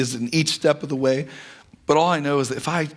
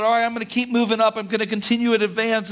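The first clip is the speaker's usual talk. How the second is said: mock ambitious self-talk; 5 semitones higher, faster than usual. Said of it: "He thought".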